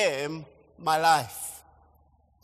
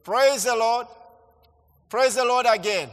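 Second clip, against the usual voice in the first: Kenyan testimony greeting. Shown as a demonstration. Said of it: "this is the way we say".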